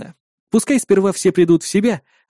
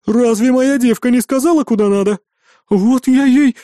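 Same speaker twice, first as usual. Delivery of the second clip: loud, high-pitched threat; indignant, raised-voice bluster; stern indignation; 8 semitones higher, 5 dB louder than usual. A narrator's reading. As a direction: scold like a formidable innkeeper. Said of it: "внезапно посуровила Хель".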